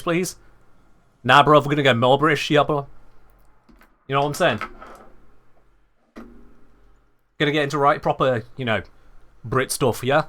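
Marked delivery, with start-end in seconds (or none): 1.2-10.2 hammed-up chav British slang, a touch quicker; mock chav British. Streamer jokingly goes more British for chat, mock chav accent. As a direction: lay on the London chav British for a laugh. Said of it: "Minus twelve percent British".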